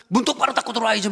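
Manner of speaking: high, fast scolding snap; mock-scold the husband at the door; nagging wife. Wife nagging husband coming home, mock scolding. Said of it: "막 이런 소리 나오고".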